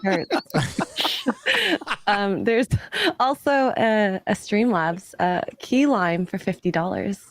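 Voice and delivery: hoarse from a cold; rough voice from being sick. Real, not acted. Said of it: "your sick voice is so hot".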